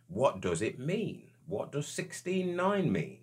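high, slow, drawn-out wondering; retold puzzled thought. Man replaying the thought that came to him, high puzzled questioning. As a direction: act out puzzling over it, stretching the words up high. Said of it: "another thought came to me".

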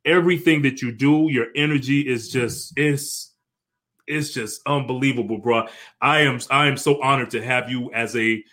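real choked-up gratitude, halting with pauses; trying not to break down while honoring a mentor; holding back tears. Real, not acted. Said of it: "I'm trying not to break down and cry".

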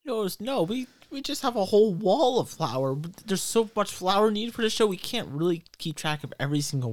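lightly voiced harried crew guy; Derek answering.

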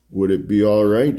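a hint of an Italian accent; lightly voiced Italian priest; thick Italian accent. A narrator's reading. Priest asks to speak alone, light Italian accent. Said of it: "in a thick Italian accent".

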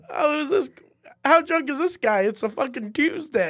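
loud, high comic's call-out; imitated stage comic mocking a walkout; calling someone out.

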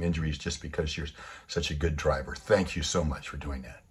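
low, gentle voicing of heartfelt thanks; sincere apology. Driver thanking the angry man behind her, low and sincere. Woman's grateful apology, voiced in story.

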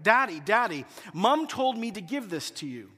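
put-on little girl calling daddy; mild child voice calling out; daughter crying out. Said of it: "I hear Hannah cry out".

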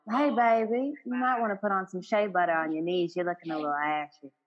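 grandmother's gentle Southern nudge; Southern accent. Retold or imitated. Grandmother to child about shea butter, Southern accent. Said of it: "Southern accent".

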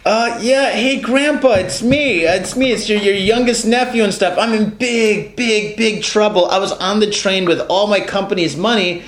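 lightly voiced panicked grandson; a hint of a desperate young caller begging; scam caller voice. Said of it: "Then in English".

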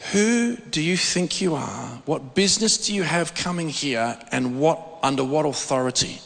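imitating a menacing voice. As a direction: challenge like a menacing spirit, taking your time. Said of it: "it was a menacing voice".

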